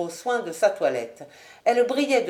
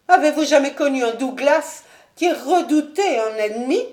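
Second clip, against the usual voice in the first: higher, proud noblewoman; higher, louder proud lady; Lady Ashton; 5 semitones higher, 5 dB louder than usual. Acted. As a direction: toss the question back with pride.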